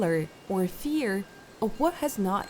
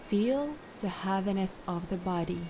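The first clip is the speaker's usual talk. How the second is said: calm, unhurried instructions with long pauses; guided meditation; 6 dB quieter than usual. Acted. Meditation guide settling listeners into posture and breath, calm guided meditation. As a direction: lead them gently through settling and breathing.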